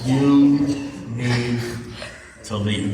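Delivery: one word at a time, long pauses between; word-by-word insistence. Retold or imitated. Friend telling Kevin to get out, slow word-by-word insistence.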